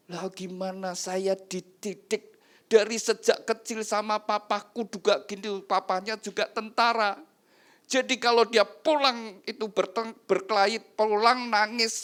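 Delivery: high, forceful self-justification; acted husband protesting at high pitch; defensive husband. Husband defends his harsh upbringing.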